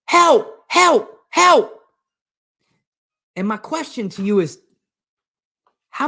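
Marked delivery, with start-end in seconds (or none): 0.1-1.7 high, separate cries for help; acted shout for help. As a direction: shout up high, one cry at a time. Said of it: "he shouts up again".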